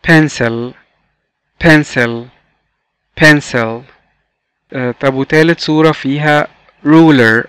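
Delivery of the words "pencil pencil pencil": PENCIL said alone, clearly, with falling pitch; model pronunciation. Shown as a demonstration. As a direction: model "pencil" for learners to repeat. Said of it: "Repeat after me". (نطق تعليمي واضح لكلمة pencil)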